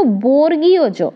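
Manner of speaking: slow, deliberate বর্গীয় জ; careful pronunciation. Shown as a demonstration. Teacher to trainee teachers, slowly modelling the name. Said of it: "এটা বর্গের জ নয়".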